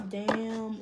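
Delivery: self-impressed damn. Shown as a demonstration. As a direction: react impressed at own words. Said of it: "Ooh, yeah, I said that".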